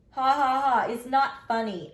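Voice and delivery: loud, high ha-ha-ha then protest; mock laugh. A narrator's reading. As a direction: fake laughter turning into complaint. Mocking brother's laughter.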